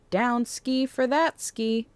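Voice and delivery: silly sing-song slang; playful, a bit dorky; goofy silly voice. Real, not acted. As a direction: toss it off in a goofy put-on voice. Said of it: "I don't know why I said it like that".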